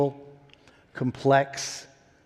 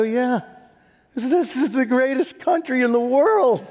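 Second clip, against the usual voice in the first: proud exclaim; 11 semitones higher, 4 dB louder than usual. Retold or imitated. Proud reply to skeptical dad.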